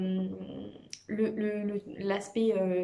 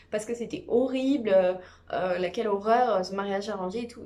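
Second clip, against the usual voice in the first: mock-dramatic outrage, a bit louder; mocking her whining; 4 dB louder than usual. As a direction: parody the princess's theatrical complaint. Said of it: "elle fait comme si elle s'était cassée". (imitation moqueuse, faussement outrée)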